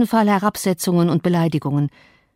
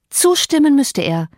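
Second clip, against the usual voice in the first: firm, higher and louder; decisive tone; 7 semitones higher, 3 dB louder than usual. Acted. Catherine answering the housekeeper, decisive and firm. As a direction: lay it down as settled. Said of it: "in entschiedenem Ton".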